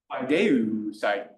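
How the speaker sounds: paideusai said very slowly; classical pronunciation. Shown as a demonstration. Lecturer repeating the optative form very slowly. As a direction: linger on every syllable of paideusai. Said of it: "I'll do a classical pronunciation".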